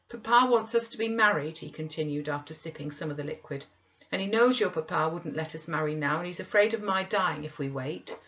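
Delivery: whiny Linton. Acted. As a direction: demand tea like a spoiled invalid. Linton explains the marriage plan.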